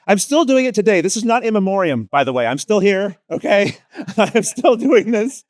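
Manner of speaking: mock-indignant, laughing emphasis on still; laughing insistence. Real, not acted. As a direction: protest playfully while laughing. Insisting he's not dead, laughing.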